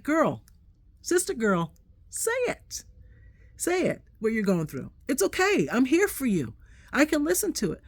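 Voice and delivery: put-on playful high sister-girl pep talk; sassy reassurance. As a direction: urge her on like a big sister. Reassuring friend, acted quote.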